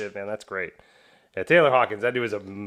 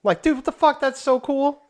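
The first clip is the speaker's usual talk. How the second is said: high, loud gushing disbelief; excited amazement; 6 dB louder than usual. Retold or imitated. Reacting to the drummer touring with his daughter, excited. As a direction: exclaim it like amazing news.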